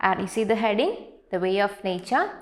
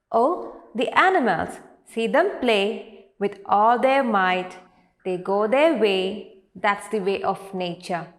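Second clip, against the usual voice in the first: poem recitation. Acted. Teacher reading a nature poem to grade three, poem recitation. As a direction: recite verse line by line, pausing after each. Reads poem stanza aloud.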